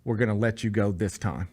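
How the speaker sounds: low, soft, measured condescension; condescending favor. Retold or imitated. Officer releasing him over a toy, condescending. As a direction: let him off as if granting a favor. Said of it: "The way he said it".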